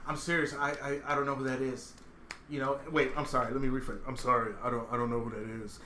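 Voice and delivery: lightly imitated late-night radio smoothness; midnight voice. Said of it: "hit me with the midnight voice".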